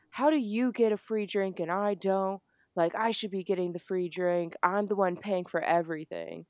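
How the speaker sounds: mildly indignant complaint, imitating an upset friend; mock freak-out. Jealous friend complaining about a free drink, mildly freaking out. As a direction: act out a jealous friend's protest, lightly. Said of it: "Sam freaks out".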